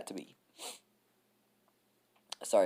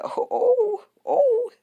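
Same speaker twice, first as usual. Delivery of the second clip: much higher, mock moaning oh's; 5 dB louder, much slower than usual. Fans posting pictures, mocked with high-pitched moans. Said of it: "they're like".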